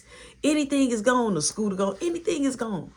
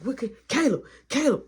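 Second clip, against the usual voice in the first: higher, louder calling out; anxious calling; 8 semitones higher, 3 dB louder than usual. Retold or imitated. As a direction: call the boy's name in worry. Calling for missing brother.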